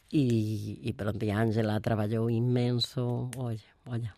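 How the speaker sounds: emotional. Real, not acted. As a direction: voice sinking as emotion wells up. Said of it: "fiquei así emocionada".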